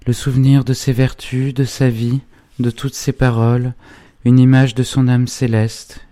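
put-on high-pitched young heroine, exalted; fervent grieving Ursule. A narrator's reading. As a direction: recite what she treasures in a high, fervent voice. (héroïne exaltée, voix aiguë)

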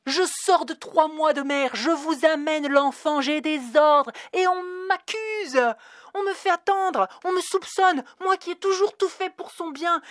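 high, loud, indignant tirade; furious rant. Acted. Dana ranting at the clerk about her messy files, furious. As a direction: pour out outrage at the clerk.

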